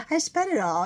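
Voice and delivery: high, laughing confession. Real, not acted. Puppeteer admitting she spent her gig money, laughing. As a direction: laugh helplessly through the admission.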